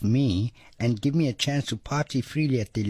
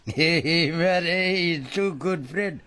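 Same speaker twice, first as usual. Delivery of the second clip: laughing; 5 semitones higher, much slower than usual. Real, not acted. Laughs at the Russian act.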